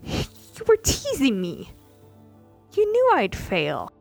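high, loud shouting rant; furious yelling. Acted. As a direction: let her rage spill out at him. Ilya yells at Archmay.

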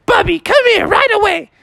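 very high urgent call; urgent mom. Acted. Mom calling Bubby to rinse eyes, high and urgent. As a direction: call him over at once. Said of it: "she was like".

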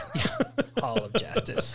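laughing through the words; can't help laughing at the name; giggling as he repeats the name. Real, not acted. Laughing at "Hall of Justice.

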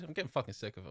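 mock private complaint; muttered aside. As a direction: say it under your breath. Mock aside about Carl.

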